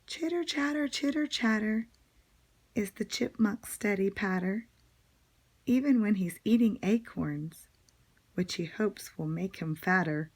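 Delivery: teacher reciting a bouncy little verse; poem recitation. Acted. Reads a poem aloud.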